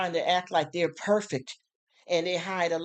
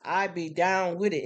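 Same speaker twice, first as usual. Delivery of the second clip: casual hype greeting; 3 semitones higher than usual. Shown as a demonstration. Host greeting a girlfriend ready for movies, casual and hyped. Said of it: "when I talk like this".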